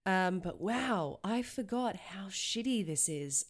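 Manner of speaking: slow, stuffy voice with a cold; sick voice. Real, not acted. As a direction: drag through it while sick. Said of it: "listen to my sick voice".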